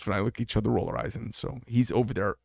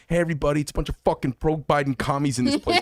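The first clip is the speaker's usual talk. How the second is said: raised voice, a bit higher and louder, playing up the yell; retold yell to restaurant; 4 semitones higher, 4 dB louder than usual. Retelling how he yelled at the whole restaurant, mild mock yell. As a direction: call out across the room in mock outrage. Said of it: "I yelled to the whole restaurant".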